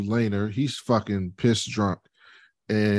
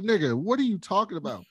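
incredulous mock reply; 8 semitones higher, 4 dB quieter than usual. Retold Laenor reply.

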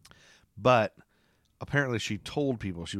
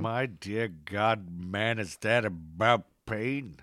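Charlton Heston impression; much slower than usual. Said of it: "do a great impression of him".

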